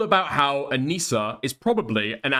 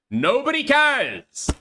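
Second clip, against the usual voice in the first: high, loud, slow drawn-out cry; exasperated yell; 11 semitones higher, 4 dB louder, slower than usual. Real, not acted. Streamer ranting to chat, loud and exasperated. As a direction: stretch it out, fed up. Exasperated rant about accents.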